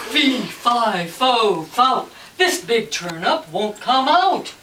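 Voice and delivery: slow, heavy rhythmic chant; loud story refrain. Acted. Farmer stuck with the turnip, loud slow chant. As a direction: pound out each word loudly, drawing it out.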